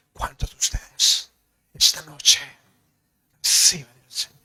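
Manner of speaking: mock Mexican accent, stretched words; acento mexicano imitado. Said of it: "Y estaban los chilenos que hablaban así". (imitando el acento mexicano de un predicador)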